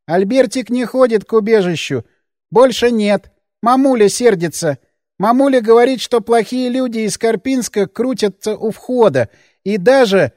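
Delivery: a hint of a fearful man-child; childlike Albertik. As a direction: speak like a scared grown child. Albertik talks of himself.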